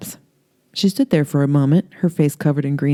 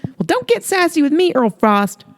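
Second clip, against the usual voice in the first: higher, sing-song flirty southern woman; flirty Holly; 13 semitones higher, 3 dB louder than usual. Acted. Holly flirting with Earl in her robe, high coy voice. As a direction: coo it up high, teasing him.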